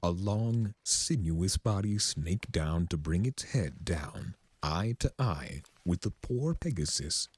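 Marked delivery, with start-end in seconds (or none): none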